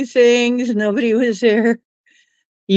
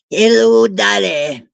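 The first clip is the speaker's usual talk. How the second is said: light Aussie lilt on a greeting; Australian accent. Pretend. Greeting the dog in a mild Australian accent. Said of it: "I guess I sound a bit Aussie there".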